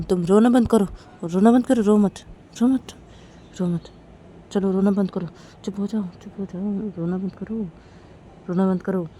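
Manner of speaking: soothing. Acted. Soothing crying wife, growing softer. (चुप कराते हुए, धीरे-धीरे नरम होती आवाज़)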